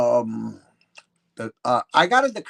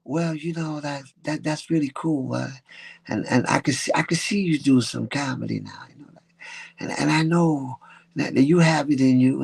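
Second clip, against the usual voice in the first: lightly voiced laid-back bandleader, partly whispered; a hint of a hushed, easygoing sax player; cool jazzman voice. Bandleader agreeing to let Julio open for him, half-hushed cool jazz voice. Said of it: "He talked very low".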